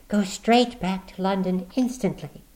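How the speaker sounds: high, pressing woman's voice; urgent warning. Acted. Woman warning the visitor to leave, urgent. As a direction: push him away with urgency. Miss Stapleton warns Watson.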